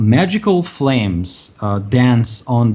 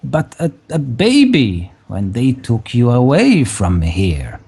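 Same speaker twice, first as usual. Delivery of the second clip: put-on very old woman. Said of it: "a very old woman".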